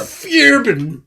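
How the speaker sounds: put-on Fearbane in a Swedish accent, fyair-ben. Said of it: "pronouncing things in a Swedish accent".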